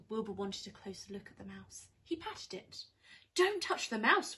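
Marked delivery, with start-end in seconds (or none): 3.4-4.4 high, loud cry of don't touch; sharp warning. Acted. Cat warns the witch off the mouse, a high loud cry. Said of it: "Wilbur said, Winnie".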